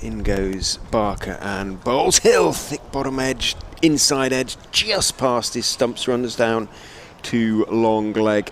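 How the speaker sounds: drawn-out delivery call lifting on the edge; live cricket play-by-play. Real, not acted. Commentator calling a ball just past the stumps, lifted live call. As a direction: call a near miss as it happens.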